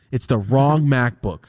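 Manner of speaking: slow, laughing through the word wrong; laughing disbelief. Real, not acted. Telling friend the wrong MacBook, laughing slowly. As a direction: laugh as you repeat it slowly.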